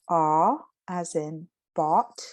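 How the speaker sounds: slow, drawn-out "aw" in "bought", almost whispered; demo of aw vowel. Shown as a demonstration. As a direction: stretch the open back "aw" of "bought". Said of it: "notice the way that I said that".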